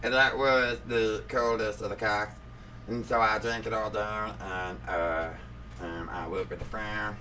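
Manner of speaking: subdued put-on cartoon voice; Meat Wad. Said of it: "now Meat Wad's voice read that".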